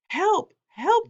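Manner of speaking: very high screaming cries; screaming for help. A narrator's reading. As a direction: shriek it in panic. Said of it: "the man was screaming".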